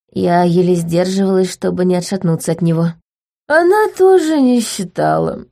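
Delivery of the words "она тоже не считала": high sing-song quip; bright mocking duchess; chirpy lady. A narrator's reading. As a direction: tease lightly, pitched well up. Gloria chimes in.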